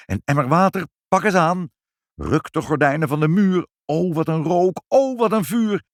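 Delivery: urgent high-pitched cries, climbing; frantic alarm. A narrator's reading. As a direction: call out in mounting panic. Frantic scene fighting the fire. (opgewonden, gealarmeerd roepend)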